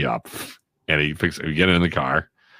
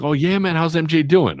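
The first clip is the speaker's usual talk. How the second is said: mock Magic Johnson greeting, much higher and a bit louder; imitating Magic Johnson; 11 semitones higher, 4 dB louder than usual. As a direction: play the friendly star saying hi, pitched way up. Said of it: "He's like".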